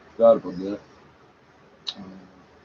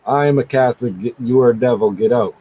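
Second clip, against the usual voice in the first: mock reading; 3 dB louder than usual. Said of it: "it says that N A M T means".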